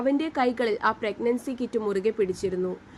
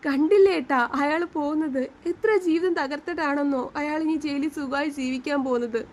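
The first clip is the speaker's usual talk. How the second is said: tearful plea; 4 semitones higher than usual. Acted. Wife crying after verdict.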